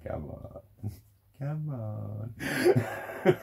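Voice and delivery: coaxing come on. Retold or imitated. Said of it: "almost going".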